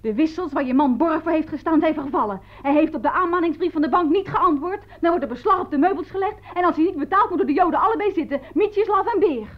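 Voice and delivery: high, officious mock proclamation; imitated police bully. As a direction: mimic a pompous officer laying down threats. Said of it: "schreeuwde dat hij van de politie kwam".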